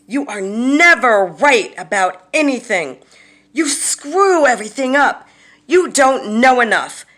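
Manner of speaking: loud, high-pitched berating tirade; furious acted shout, punching key words; screaming in their face. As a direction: hurl each insult at full force. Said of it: "screaming into their face".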